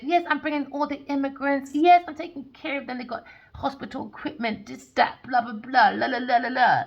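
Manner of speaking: high, loud sing-out of empty claims; dismissive mock proclamation; mocking boast. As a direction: parody a self-satisfied speech, tailing into blah-blah. Mocks the dad's boastful false claims.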